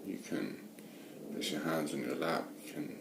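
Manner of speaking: unhurried meditation guidance with long pauses; guided meditation. Real, not acted. Meditation teacher settling listeners into watching the breath, guided meditation. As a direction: guide listeners gently, leaving space between phrases.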